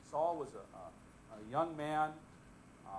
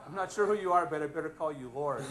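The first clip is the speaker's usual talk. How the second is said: Saul unsure; 7 dB louder than usual. Retold or imitated. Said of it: "probably good recognition that".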